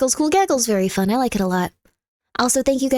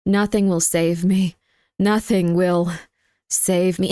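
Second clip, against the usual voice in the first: mock despair; 4 semitones lower, slower than usual. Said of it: "How about instead of going".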